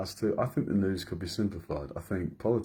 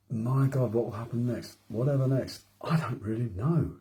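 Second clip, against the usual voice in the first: mock worried voice; 4 semitones higher than usual. Mock despairing voice of news-watchers.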